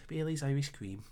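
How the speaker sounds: hammy mock-Irish accent; bad Irish accent. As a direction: attempt an Irish accent and get it wrong. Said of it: "That is the worst Irish accent ever".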